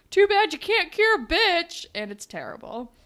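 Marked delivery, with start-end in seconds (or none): 0.1-1.9 high, loud, slow retold yell; hammed-up angry yell at her; mock yell. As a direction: spit it out like a nasty insult. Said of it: "he yells at her".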